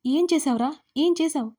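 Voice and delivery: understated angry cry; shouting. A narrator's reading. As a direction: demand it with a touch of shouting. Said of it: "అరుస్తూ".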